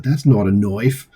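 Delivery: put-on slow, half-hearted Australian accent on "That's not a knife"; a weak try at an Australian drawl, admitting you can't; attempted Australian accent. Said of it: "I can't do an Australian accent".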